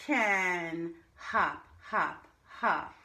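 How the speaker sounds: put-on lively read-aloud to young children; bouncy reading. Shown as a demonstration. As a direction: make the hops bounce for the kids.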